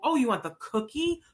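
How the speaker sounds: put-on lifted, bright voice offering a child the cookie; eager coaxing question. Shown as a demonstration. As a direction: coax him, all encouragement. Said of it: "and then go".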